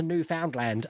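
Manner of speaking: Newfoundland said as new-found-land; Newfoundland spoken as it is spelt; mistaken pronunciation. Retold or imitated. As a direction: give "found" its full vowel in Newfoundland. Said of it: "I was calling it Newfoundland".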